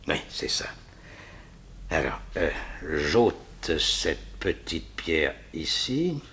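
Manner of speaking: breathy aside under his breath; a hushed, absorbed whisper; whispering to himself. Acted. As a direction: mutter it to yourself while you work. Villain checks sketch to himself.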